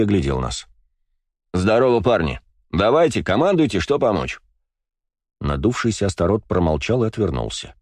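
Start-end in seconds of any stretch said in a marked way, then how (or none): 1.5-4.4 жизнерадостно. Acted. Жизнерадостный Слава предлагает помощь.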